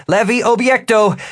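high, firm magical command; spell incantation. Acted. Wizard aiming his staff at a large pumpkin, commanding.

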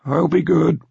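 high-pitched grandfather giving in; calmer voice. A narrator's reading. Grandfather promising granddaughter to behave, calmer high voice. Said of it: "her grandfather said in a calmer voice".

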